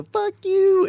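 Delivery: high, loud yelled insult; shouting. Retold or imitated. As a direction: scream it as you run past. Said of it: "I just hear Kenny go".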